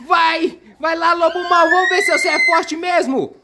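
high, cheering call to the toy wolf; hyped-up teasing cheer; egging on the wolf. Pretend. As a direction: cheer him on like a playful referee.

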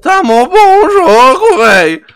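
loud, high, stretched-out delight; delighted loud praise; excited praise. Real, not acted. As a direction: gush about how good the game is. Enthusing about the game.

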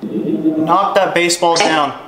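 slow, firm order with stress on that; slow command. Real, not acted. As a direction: command it slowly. Commanding the spirit.

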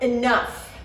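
loud commanding shout. A narrator's reading. Narrator breaking up the fight, loud shout. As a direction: stop them dead.

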